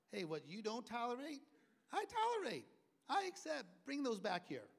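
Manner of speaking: Jesus calling out. Acted. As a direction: call the children back with authority. Voicing Jesus rebuking apostles.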